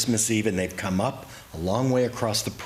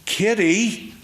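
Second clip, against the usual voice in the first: high, sharp scolding call; mother's shocked whisper-shout; startled hush; 12 semitones higher, 6 dB louder than usual. Retold or imitated. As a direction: catch the child mid-blurt. Mother hushing the child.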